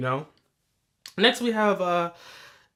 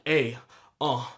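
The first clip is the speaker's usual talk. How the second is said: a rapper's ad-libs. Retold or imitated. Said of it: "he's doing the rapper".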